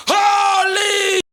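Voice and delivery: high, loud astonished cry; stunned dad. Retold or imitated. Dad on phone amazed by the win, loud shout. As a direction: blurt it in disbelief. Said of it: "He goes".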